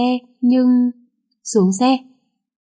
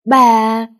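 loud warning bark at the wife; angry shout; 6 dB louder than usual. Acted. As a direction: cut her off with one furious word. Husband cuts off arguing wife.

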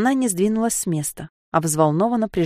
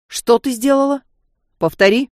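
sharp demand, rising anger; angry demand; 6 semitones higher, 5 dB louder than usual. Acted. Serge suddenly enraged. (Серж гневно требует ответа)

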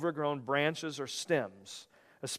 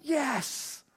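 mock cheer; 12 semitones higher than usual. Mock glee after "dip year.

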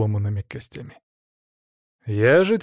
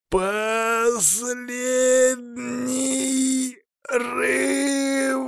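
high, slow, straining cry; desperate battle cry; torn from the throat; 12 semitones higher, much slower than usual. A narrator's reading. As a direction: wrench the words out with the last of your strength. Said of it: "вырвалось у меня из глотки".

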